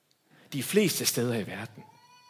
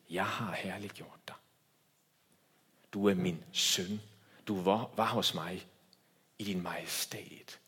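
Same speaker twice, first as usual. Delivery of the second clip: whispered divine voice; 6 semitones lower, 5 dB quieter than usual. Acted. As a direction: breathe the words as a secret from heaven. Voicing the Father to Jesus.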